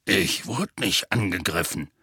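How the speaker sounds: low, firm insistence; lightly voiced giant, insisting; emphatic Hagrid. A narrator's reading. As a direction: deny it firmly. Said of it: "sagte Hagrid nachdrücklich".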